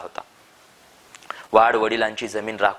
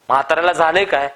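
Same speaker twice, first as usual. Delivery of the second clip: worried call; 6 semitones higher, 5 dB louder, faster than usual. A narrator's reading.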